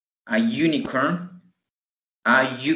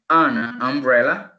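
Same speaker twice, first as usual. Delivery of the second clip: slow careful; slower than usual. Shown as a demonstration. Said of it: "teacher slows phrase".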